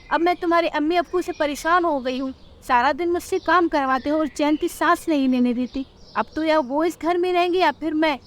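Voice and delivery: a wife's ultimatum; worried husband then angry wife. Acted. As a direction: couple arguing about the parents. Husband asks, wife complains.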